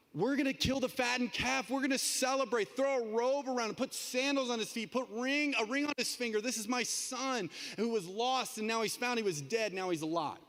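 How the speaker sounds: father's overjoyed call, pitched well up; joyful father. Acted. Father welcoming lost son home, joyfully high. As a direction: announce the feast with delight.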